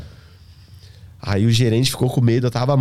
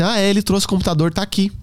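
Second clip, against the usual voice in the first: raised, innocent little sister; little girl voice; 7 semitones higher than usual. Retold or imitated. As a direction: chirp it like a small girl. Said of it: "menor, falou assim".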